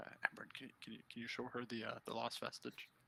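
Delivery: quiet, deliberate whisper. Asking a companion to show her the lost vestige: whispering. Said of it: "I'll very purposely whisper this time".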